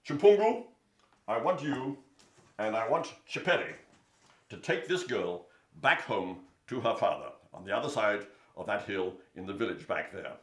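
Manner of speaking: loud commanding lion. Acted. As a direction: order them like a king. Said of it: "And Lion said".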